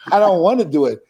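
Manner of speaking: the reluctance repeated through a laugh. Retold or imitated. The speaker repeating his refusal to Bubba with a laugh. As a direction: laugh it out, half joking. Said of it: "I can do it, but I don't wanna do it".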